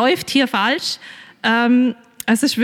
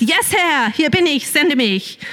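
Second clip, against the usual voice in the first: higher, eager pretend Moses; mock eager answer; 4 semitones higher than usual. Preacher imagines Moses answering God, mock eager. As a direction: toss it off like a keen volunteer. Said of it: "Nein, sagt er leider nicht".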